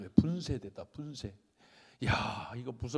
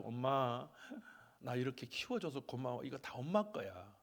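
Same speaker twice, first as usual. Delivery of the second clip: lower, softened grateful voice; tender thanks; 3 semitones lower, 6 dB quieter than usual. Retold or imitated. Grown child thanking mother for raising them, tender quiet voice. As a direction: say it gently to mom.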